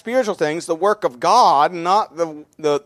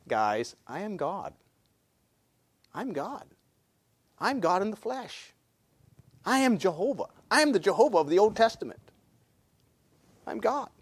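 very soft, earnest disclosure; hushed revelation; 9 dB quieter than usual. Acted. Preacher voices Jesus telling them who he is, hushed and earnest. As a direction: confide it quietly, with spaces between statements.

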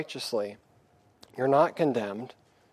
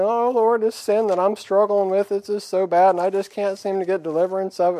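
high, whiny, pleading moan; mock a self-pitying prayer; a believer whining to God about sin, mock moaning; moaning and groaning; 5 semitones higher, 3 dB louder than usual. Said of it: "just moaning and groaning".

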